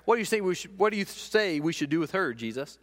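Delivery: scheming accusers baiting Jesus. Acted. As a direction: needle him with the question. Accusers trapping Jesus, acted quote.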